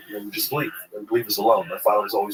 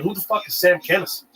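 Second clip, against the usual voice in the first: baffled; 8 semitones higher than usual. Retold or imitated. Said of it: "I'm like".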